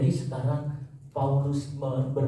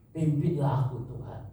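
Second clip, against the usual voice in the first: stronger plea; 4 semitones higher than usual. Acted. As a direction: lean harder into the begging. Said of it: "Dia bilang".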